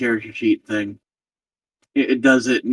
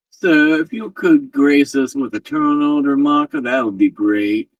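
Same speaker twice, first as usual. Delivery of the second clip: put-on character voice; 3 semitones higher than usual. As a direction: slip into a game character's voice. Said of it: "I use that voice".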